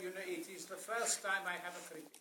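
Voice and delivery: lightly imitated accent of a famous Brazilian singer. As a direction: answer in a mildly put-on accent of that singer. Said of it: "You sound more like Carmen Miranda".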